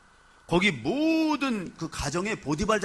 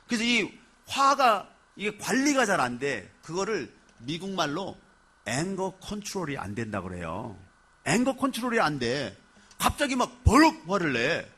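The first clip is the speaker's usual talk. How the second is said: usual speaking voice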